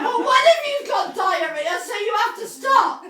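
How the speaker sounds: high, loud retold plea; high urgent story voice; retold mock plea. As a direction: pitch it up and push it out. Retold own line to driver.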